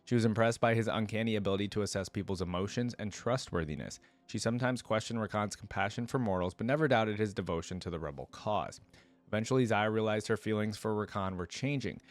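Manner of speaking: measured read-aloud narration; story narration. Acted.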